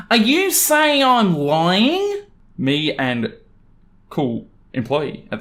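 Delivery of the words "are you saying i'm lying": high, slow, indignant mother voice; entitled mum, offended. Acted. Entitled mum huffing at the customer and the employee, high and slow. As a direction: drag out the outrage.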